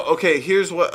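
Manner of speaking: ordinary talk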